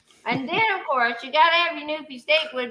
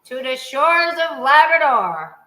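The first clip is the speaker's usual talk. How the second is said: solemn recital; 4 dB louder, slower than usual. Shown as a demonstration. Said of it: "I'm gonna say it, and you're gonna repeat after me".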